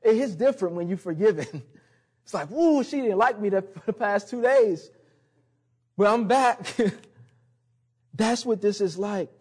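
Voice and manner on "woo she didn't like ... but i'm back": a touch of hammed-up relief; relieved playful woo. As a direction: act out a happy sigh of relief.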